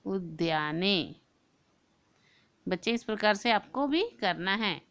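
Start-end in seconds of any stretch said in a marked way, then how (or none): 0.0-1.1 उद्याने said again slowly, syllable by syllable; slow clear pronunciation. Shown as a demonstration. Teacher repeats उद्याने slowly so the children can copy it. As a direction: model उद्याने slowly once more. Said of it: "तो हम उद्याने लिखते हैं".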